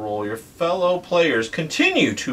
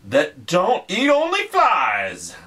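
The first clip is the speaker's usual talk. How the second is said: grand hollywood dame; 6 semitones lower, slower than usual. Acted. Reading Jumanji riddle in theatrical voice.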